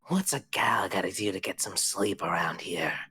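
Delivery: breathy whisper of the other head; same line from the female head. Acted.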